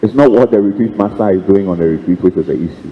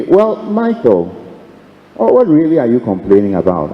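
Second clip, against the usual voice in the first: voice of God. Retold or imitated. Inner voice of God speaking.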